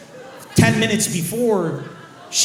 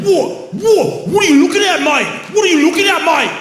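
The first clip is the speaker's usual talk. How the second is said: much higher, louder, shouting what are you looking at; aggressive Lebanese Aussie; 11 semitones higher, 8 dB louder than usual. Retold or imitated. Comic imitating an aggro Lebanese Australian, loud and high. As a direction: play a hyper-aggressive bloke picking a fight. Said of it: "so hyper-aggressive on testosterone".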